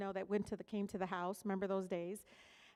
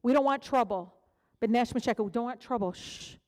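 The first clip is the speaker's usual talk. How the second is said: louder, urgent warning ending in shh; hushing parent; 5 dB louder, faster than usual. Retold or imitated. Parents protecting their kids, urgent hushing warning. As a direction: hush the child, pleading. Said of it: "parents and grandparents trying to protect us".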